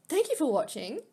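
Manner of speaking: real teary laughter; giggling while tearful; laughing through tears. Real, not acted. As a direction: laugh and sob mixed. Laughing sign-off after crying.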